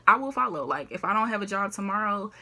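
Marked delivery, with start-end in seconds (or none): 0.1-0.6 emphatic repeat. Real, not acted. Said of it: "repeated louder and higher".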